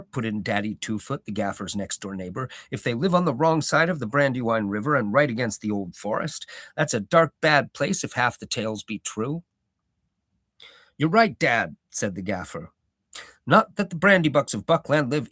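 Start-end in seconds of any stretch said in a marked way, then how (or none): 2.7-9.4 lightly voiced grumbling neighbour; a touch of a gruff old neighbour; Daddy Two-Foot. 11.0-11.8 old hobbit gardener, lightly voiced, proud; a touch of a rustic old gardener holding forth; Gaffer's voice.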